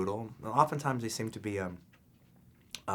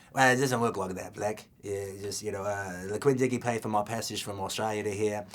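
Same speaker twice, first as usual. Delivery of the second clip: put-on Australian accent. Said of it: "give us a little of your Australian accent".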